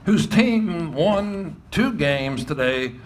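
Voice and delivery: booming PA announcement of the coach; light imitation of a stadium PA voice; ballpark announcer. Retelling the ballpark announcer's call.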